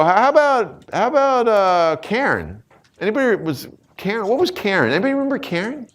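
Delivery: straining to remember; high puzzled recall. Retold or imitated.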